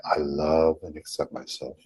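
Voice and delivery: easy, understated self-acceptance; relaxed tone. Shown as a demonstration. Repeating the affirmation for followers, relaxed tone. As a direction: say it with nothing to prove. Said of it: "the tone of the voice, the relaxation in the chest".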